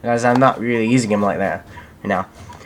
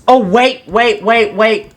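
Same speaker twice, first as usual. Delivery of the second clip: surprised; 8 semitones higher, 4 dB louder, slower than usual. Real, not acted. Sudden new cat screen.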